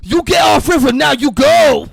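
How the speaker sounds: high, loud, indignant mock Asian accent; shouted broken-English Asian accent. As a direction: scold trespassers in a hammed-up Asian accent. Acted angry accented film character.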